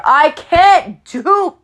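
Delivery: choked and strained, slow and high; words squeezed out while choking. Real, not acted. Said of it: "sorry, I just started choking".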